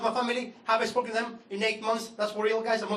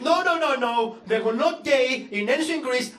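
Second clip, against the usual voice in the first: dad denying. Retold or imitated. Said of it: "My dad refused to believe it".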